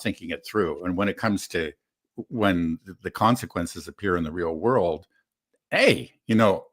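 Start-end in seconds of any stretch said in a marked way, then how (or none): 5.7-6.7 high, loud sheepish excuse; mock backpedaling voter. Guest imitating voters backpedaling in a higher, louder voice. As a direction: play a voter caught out.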